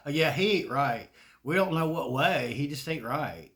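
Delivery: deadpan folksy Southern judgment; Southern saying. Retold or imitated. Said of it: "That's what we say in the South".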